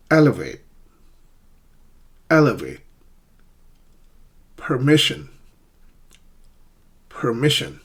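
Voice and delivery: each word alone, stressed syllable clear, as in "Elevate" on EL; "Permission" on MIS, "Furniture" on FUR, each distinct; careful word models. Shown as a demonstration. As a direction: dictate for learners, pausing after each word. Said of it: "I'll pronounce each word twice".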